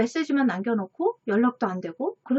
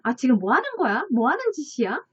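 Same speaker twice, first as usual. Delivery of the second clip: quick, mock-angry demand; imitated angry outburst; faster than usual. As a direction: play someone losing their temper, lightly. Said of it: "막 그렇게 화를 내잖아요".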